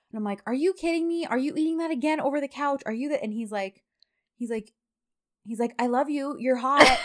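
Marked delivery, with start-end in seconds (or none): 0.5-3.2 high-pitched mock nagging, quick; exasperated. Retold scolding of messy husband. 5.8-7.0 imitating a husband's flirting, higher; playfully sweet-talk, close to laughing. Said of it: "don't flirt your way out of this".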